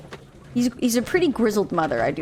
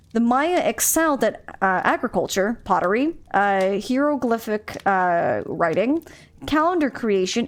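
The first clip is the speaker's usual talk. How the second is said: reading aloud. Acted. Reads game text aloud.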